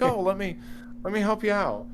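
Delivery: high, overly eager offer to help; gleefully volunteer to assist; eager helper. Retold or imitated. Eager Redditor imitated.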